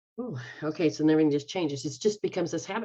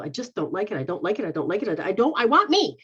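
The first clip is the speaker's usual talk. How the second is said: insistent protest; 4 dB louder, faster than usual. Retold or imitated. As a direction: act out mounting refusal. Acting out a client's inner protest.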